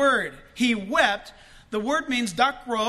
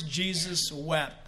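slow reading; 7 semitones lower, 6 dB quieter, much slower than usual. Shown as a demonstration. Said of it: "In English, it comes out to be two words".

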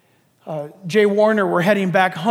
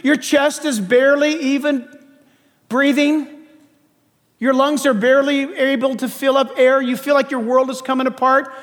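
desperate prayer; 4 semitones higher than usual. Pretend. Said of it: "You go to God and you say".

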